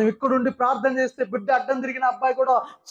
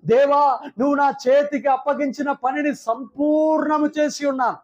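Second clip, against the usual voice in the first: Jesus' cry; 4 semitones higher than usual. Retold or imitated. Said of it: "దేనికి అప్పగించాడు".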